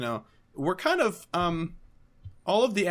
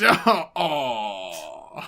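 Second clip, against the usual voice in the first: mock crying; 5 semitones lower, 5 dB louder than usual. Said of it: "just starts crying".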